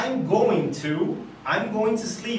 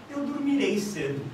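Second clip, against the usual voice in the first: tentative, as if only maybe; uncertain; 3 dB quieter than usual. Shown as a demonstration. Teacher shows students how a mere maybe sounds, uncertain. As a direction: say it without commitment. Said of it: "quiçá".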